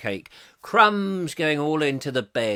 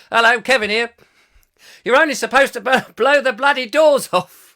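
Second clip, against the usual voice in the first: louder, higher cockney film-star voice; Michael Caine impression; 7 semitones higher, 8 dB louder than usual. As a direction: deliver it like a cockney film hard man. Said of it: "Could be Michael Caine".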